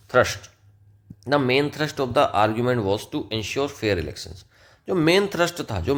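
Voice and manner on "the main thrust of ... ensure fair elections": each word laid out slowly and evenly; slow dictation. Shown as a demonstration. Teacher dictating the example sentence to the class, slow and clear.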